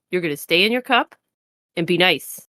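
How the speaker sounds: scolding cat voice. Acted. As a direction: talk down to it like a cat. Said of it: "You can use a cat voice on a god?".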